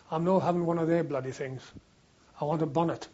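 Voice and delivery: imitated Scottish soldier; Scottish accent. Scottish soldier refuses an issued cap, in an imitated Scottish accent. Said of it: "in a very pronounced Scottish accent said".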